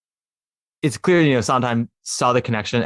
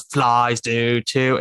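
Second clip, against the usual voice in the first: low voice; much slower than usual. Retold or imitated. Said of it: "she goes".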